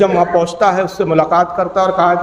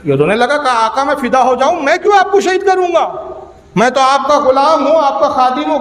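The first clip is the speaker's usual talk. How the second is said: pleading protest; 5 semitones higher than usual. Acted. Servant pleads with his master, high-pitched and imploring. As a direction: voice climbs much higher, earnest and imploring.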